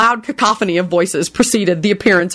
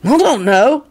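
careless; 5 semitones higher, slower than usual. Acted. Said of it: "he replied carelessly".

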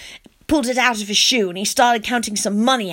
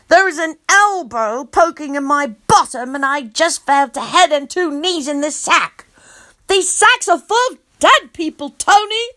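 alarmed; 5 semitones higher than usual. Acted. Horrified child.

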